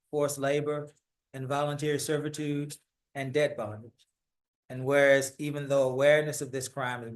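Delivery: measured, official read of a city proclamation; steady civic reading voice; formal proclamation reading. Acted. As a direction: read it out like a formal decree to the council. Reads the city proclamation aloud.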